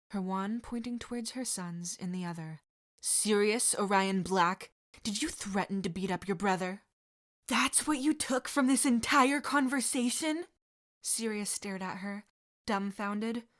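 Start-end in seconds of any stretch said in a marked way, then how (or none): 3.0-6.8 a mother laying down the law; stern mother. Acted. Mother confronts her son. 7.5-10.5 high, loud indignant retort; incredulous retort. Acted. Sirius to his mother, incredulous and loud.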